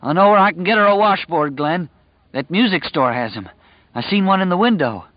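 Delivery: high, loud feverish raving; delirious cry. Acted. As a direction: cry out, lost in a fever dream. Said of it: "Stu cried out".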